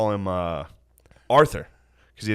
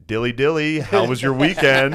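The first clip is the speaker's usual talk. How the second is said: office dork; 3 semitones higher, 3 dB louder than usual. Retold or imitated. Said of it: "looks like a dork from an office".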